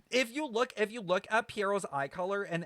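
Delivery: excited. Real, not acted. Excited start of explanation.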